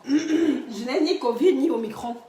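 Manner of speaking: laughing. Real, not acted. Laughing denies having covid.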